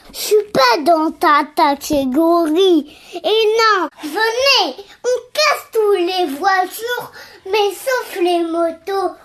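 distant off-mic voice; too far from the microphone. Real, not acted. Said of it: "T'es trop loin du micro".

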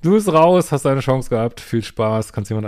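firm dismissal. Pretend. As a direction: tell him he's out. Imaginäre Abfuhr an den Ex. (laute Abfuhr an den Ex)

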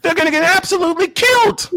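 hammed-up Southern twang. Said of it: "with the Southern twang".

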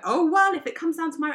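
high, loud heated snap; rising anger in a row. Retold or imitated. Mid-argument with partner, high loud heated snap. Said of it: "when it got really ugly".

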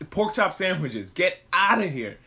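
slow, emphatic mock command; mock urgent order. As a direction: draw out a mock order to leave. Quoting the demon slayer's order.

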